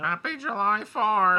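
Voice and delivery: loud, high, drawn-out whoop; hammed-up holiday cheer. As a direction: holler a festive greeting, stretched out.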